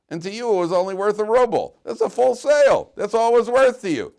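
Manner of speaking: high, shouted retold argument; emphatic rebuttal. Rebbe tells the seller it was a full sale, shouting emphatically. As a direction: hammer the verdict home, shouting high.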